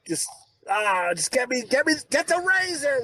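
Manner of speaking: worked-up retelling of a fit of temper; retold exasperation. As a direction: act out losing patience, rising at the end. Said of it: "makes me so mad".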